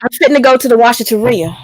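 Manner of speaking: put-on Southern country phrasing; country accent. Shown as a demonstration. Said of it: "I can sound like I'm from the country".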